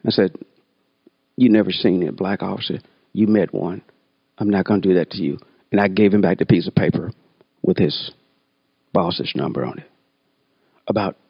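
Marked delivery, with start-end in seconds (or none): 1.4-5.4 near tears. Retold or imitated. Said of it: "almost in tears".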